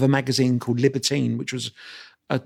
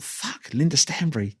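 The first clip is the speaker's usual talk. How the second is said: slow, half-swallowed groan of dread on "Linda Stanbury"; dread at the name; slower than usual. Retold or imitated. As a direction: drag out "Fuck, Linda Stanbury" like you're in trouble. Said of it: "anyway, I thought".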